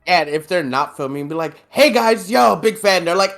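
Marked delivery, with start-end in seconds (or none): 1.7-3.1 higher-pitched, pretend fan calling out; eager fan greeting. Fan meeting creators who are not filming, eager greeting.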